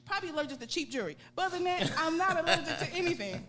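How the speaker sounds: exasperated patient snapping at a nurse; getting mad. Retold or imitated. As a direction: rattle it off fed up with repeat questions. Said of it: "And now I'm getting mad".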